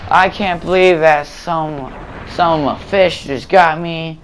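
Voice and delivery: slow, drawn-out mock disbelief; half-hearted retold meltdown over a sniper kill; retold flipping out. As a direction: stretch each word like you can't believe it. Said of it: "flipping out".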